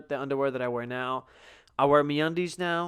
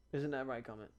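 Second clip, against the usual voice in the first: soft pet talk; 3 semitones lower, 12 dB quieter than usual. Real, not acted. Talking softly to the cat.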